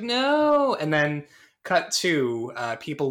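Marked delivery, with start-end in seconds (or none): 0.0-0.7 screaming no. Retold or imitated. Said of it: "scream acting ... he's just like".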